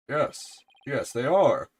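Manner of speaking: loud, high, overjoyed exclamation; delighted detective. Acted. Detective recognizing his lost shoes, delighted. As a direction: burst out with hammed-up delight.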